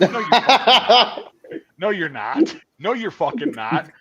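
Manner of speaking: stern drill sergeant scolding; lightly voiced angry drill sergeant; drill sergeant yelling. Drill sergeants call them out.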